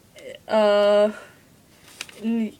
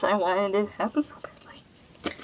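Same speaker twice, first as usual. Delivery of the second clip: breathy whisper, longing; 2 semitones lower, 6 dB quieter than usual. Real, not acted. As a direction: confide it in a whisper. Longing confession about the book.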